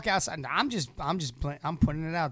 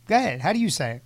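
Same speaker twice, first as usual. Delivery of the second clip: ordinary talk, nothing marked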